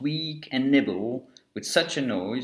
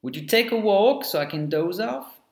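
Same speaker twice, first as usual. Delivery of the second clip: higher-pitched, polite storybook question; nice polite request; 7 semitones higher than usual. A narrator's reading. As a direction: ask nicely, voice lifting high at the end. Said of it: "asks him nicely".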